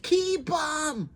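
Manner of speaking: high, loud short shout; quick high yell up to the window; yelled back. Retold or imitated. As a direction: fling it back up at him. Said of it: "So I yelled back".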